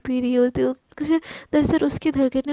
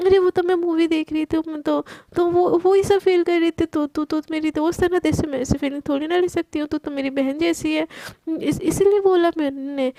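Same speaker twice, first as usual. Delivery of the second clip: बहाना बनाते हुए; 3 semitones higher than usual. Acted. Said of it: "अचानक से बहाना बना देती".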